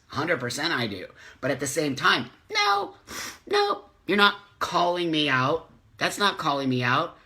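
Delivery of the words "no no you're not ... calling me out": sharp high no, then firm rejection; indignant no. Real, not acted. Rejecting a follower's call-out, indignant and firm. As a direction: shut the idea down flatly.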